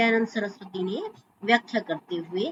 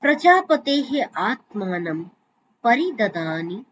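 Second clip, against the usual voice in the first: closing mantra. Acted. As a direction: intone the closing invocation.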